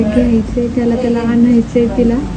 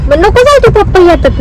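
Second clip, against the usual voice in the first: calling out; 8 semitones higher, 4 dB louder, faster than usual. Real, not acted. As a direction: call her back, pleading. Mother calling child not to go. (उंच, मोठ्याने हाक मारत थांबवणे)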